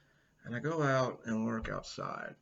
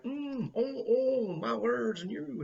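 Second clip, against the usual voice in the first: mock sensual; 12 semitones higher, 7 dB louder, much slower than usual. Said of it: "One would think I'd be all like".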